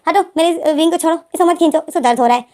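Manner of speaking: mildly urgent, quick protective scolding; urgent protest. Retold or imitated. Lenzen telling Wing to stop pulling the pillow, urgent protest. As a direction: plead insistently for it to be let go.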